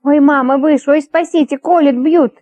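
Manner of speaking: put-on a drunk begging for rescue from invisible demons; panicked cries. A narrator's reading. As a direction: cry out as if being stung all over. Drunk in delirium, crying out.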